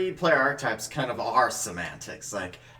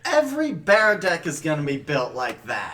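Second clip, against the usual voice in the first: shouting; 3 semitones higher, 3 dB louder than usual. Real, not acted. Heated joking deck argument.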